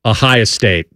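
Ohio State said the local Ohio way; Ohio accent. Retold or imitated. S0 retelling saying Ohio State in a Midwest accent. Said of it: "I actually said it like that".

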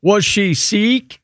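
Sikh said slowly for the pun; slow pun delivery. Pretend. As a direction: drag out Was she Sikh to land the joke. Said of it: "That's so high and inside".

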